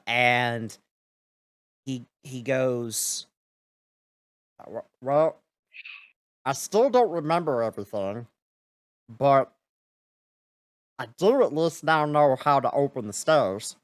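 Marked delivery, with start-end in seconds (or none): 4.6-13.8 ice guardian voice. Acted.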